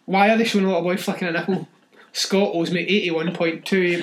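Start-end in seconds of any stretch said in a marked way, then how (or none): 0.1-1.7 louder, faster, disbelieving question; incredulous outburst. Real, not acted. Podcaster to cohost, incredulous at the film, louder and faster. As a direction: fire it off in disbelief. Outraged at the film's scene.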